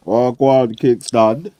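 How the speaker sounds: drawn-out greeting. Real, not acted.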